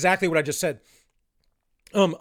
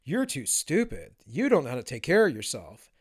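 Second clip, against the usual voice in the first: condescending; 4 semitones lower than usual. Retold or imitated. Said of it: "looking their nose down at you and saying".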